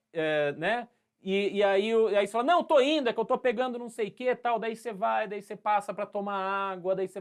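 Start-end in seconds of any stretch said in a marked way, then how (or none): 2.4-4.6 quick, high, fake-innocent excuse. Student fobbing off the teacher, quick and high. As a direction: brush it off fast and higher.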